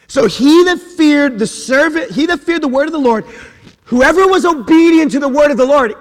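loud, high preaching voice. Acted. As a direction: preach it hard to the congregation. Preaching at full force.

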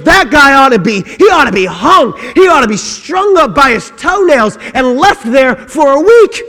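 loud, indignant demand for punishment; rising to a furious cry on the last words; David pronouncing a harsh sentence, loud and indignant; outraged verdict. Acted. David outraged at the lamb story.

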